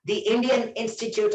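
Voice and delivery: "The" said "dee" before Indian. Shown as a demonstration. Teacher quizzing students on the vowel rule, "The" pronounced "dee". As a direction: give "The" an ee vowel. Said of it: "How did I pronounce T H E here?".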